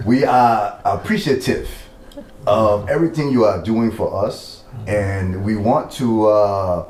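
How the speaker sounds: light Liberian English accent, slow and careful. Shown as a demonstration. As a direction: speak slowly in a mild Liberian accent. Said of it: "interview in the Liberian accent".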